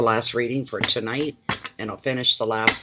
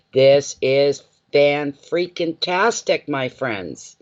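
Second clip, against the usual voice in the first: thrilled; 3 semitones higher, 4 dB louder, much slower than usual. Real, not acted. Excited about card.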